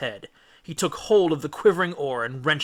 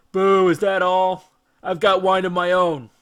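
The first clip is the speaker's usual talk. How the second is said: snarl; 6 semitones higher, 8 dB louder than usual. A narrator's reading. Polyphemus scorning the wine, snarling. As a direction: sneer it out like a scornful giant. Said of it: "snarled Polyphemus".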